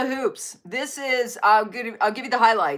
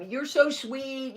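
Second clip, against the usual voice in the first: soft pet talk; 3 semitones higher, 5 dB quieter, much slower than usual. Real, not acted. Praising the dog during training.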